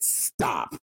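whispered stop. Retold or imitated. Wendy quietly stopping A J, whispered. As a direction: breathe the word "Stop." out. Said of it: "Wendy looked at A J and said".

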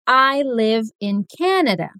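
live said slowly with a short i; I live in Canada, live rhyming with give; slow model sentence. Shown as a demonstration. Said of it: "Então, eu posso dizer".

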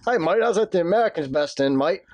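unconvincing Australian accent; amateur Aussie mate impression; bad Australian accent. Shown as a demonstration. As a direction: badly fake an Australian accent. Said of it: "That's not Australian".

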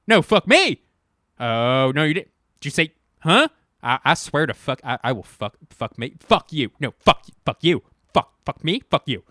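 loud, high, hammed-up cursing tirade; mock furious shouting. Ranting at an imaginary Wissahickon, loud mock fury. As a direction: pick a fake fight at the top of your lungs.

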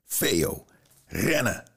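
a far voice calling out, rising high on rennen; urgent warning to run, pitch jumping up; desperate cry. A narrator's reading. Mother calling from the burning house, desperate cry. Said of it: "Een kreet".

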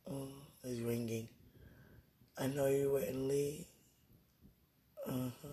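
drowsy, dozing off mid-sentence; sleepy, words drifting as you nod off. Real, not acted. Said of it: "I'm dozing off".

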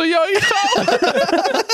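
very high, slow, laughing shout on the punchline. Retold or imitated. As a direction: shriek the punchline while cracking up. (lachender Schrei, sehr hoch und langsam)

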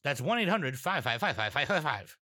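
light mock infomercial read; a hint of a TV pitchman. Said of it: "You gotta say it like an infomercial".

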